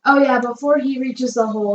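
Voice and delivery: usual speaking voice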